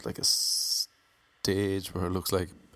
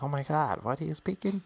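high mock-American disbelief; baffled American; 7 semitones higher than usual. American women puzzled by Irish lads' talk, high baffled imitation. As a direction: imitate a bewildered American, pitched up.

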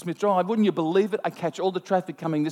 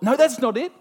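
dismissive thought; 7 semitones higher, 5 dB louder than usual. Retold or imitated. Retold sudden thought while driving.

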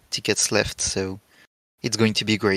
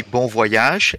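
put-on British accent on "bon voyage"; terrible British accent; 6 dB louder than usual. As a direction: say "bon voyage" like a Brit, badly imitated. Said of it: "a terrible imitation of a British".

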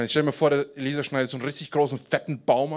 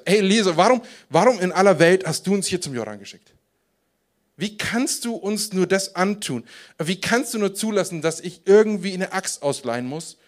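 acted-out despair, pitched up; desperate complaint; 4 semitones higher than usual. Man reproaching Elisha for sending them to Jordan, mildly desperate. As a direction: plead reproachfully, as if at a loss. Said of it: "dass er völlig verzweifelt ist in dieser Situation".

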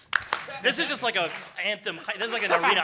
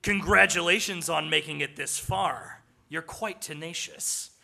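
trying hard to sound villainous; wannabe villain. Acted. Unseen villain congratulates heroes, effortful villain voice. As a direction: put on a villain voice. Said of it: "trying really hard to sound like a villain".

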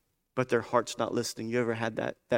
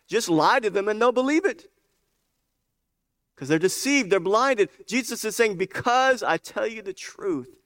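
higher-pitched, insistent preacher; impassioned preaching; 10 semitones higher, 6 dB louder than usual. Real, not acted. Preacher showing the congregation how the deceived believe lies, impassioned. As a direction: preach it with rising urgency.

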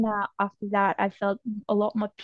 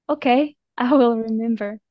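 a laughing okay, a little louder; laughing agreement; 5 dB louder than usual. Retold or imitated. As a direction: promise it through a laugh. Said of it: "And I said".

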